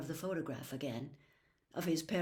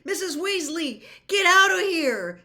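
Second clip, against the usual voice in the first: loud, higher urgent shout; 12 semitones higher, 14 dB louder than usual. A narrator's reading. Harry shouts at Missus Weasley to leave, loud. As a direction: yell to get her out of the room. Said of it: "shouted Harry".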